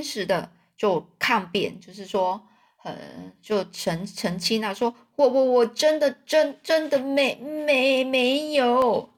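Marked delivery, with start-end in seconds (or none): 5.2-9.1 higher, broken, gasping denial; stammering denial. A narrator's reading. Choked king insisting innocence, stammering. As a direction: stutter it out choking. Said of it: "就是很坚持的就抗辩".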